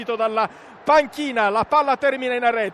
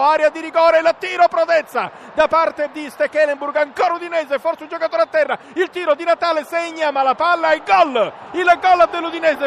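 breathless italian goal commentary; 3 semitones higher than usual. Real, not acted. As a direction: chase the action up to the goal. Udinese chance and goal called live.

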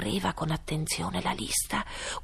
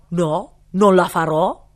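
defiant refusal; 14 dB louder, slower than usual. A narrator's reading. Cook refuses the king.

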